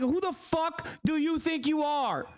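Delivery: mock rant. Streamer re-enacting his rant at the panelist, mock angry. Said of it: "'Cause I, like".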